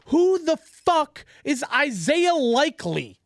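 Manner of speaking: slow, incredulous demand; exasperated disbelief. Real, not acted. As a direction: spit out the question word by word. Ranting about weak receivers.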